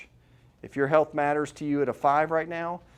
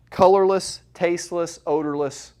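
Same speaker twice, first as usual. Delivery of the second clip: punched out loud and high; loud dramatic emphasis; 4 semitones higher, 6 dB louder than usual. Real, not acted. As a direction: sell the danger with a loud first word. Dramatic list describing the poison.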